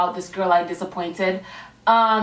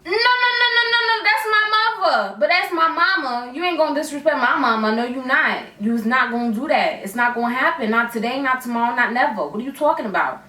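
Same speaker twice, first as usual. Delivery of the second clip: angry comeback; 2 semitones higher than usual. Retold or imitated. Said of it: "I was ready to pop off".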